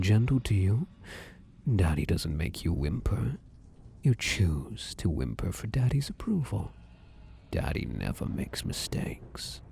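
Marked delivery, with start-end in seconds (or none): 1.8-9.6 soft, hushed gaslighting whisper; chilling whisper. Acted. Shadow "Daddy" gaslighting his victim, chilling whisper. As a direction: whisper it like a creepy lullaby.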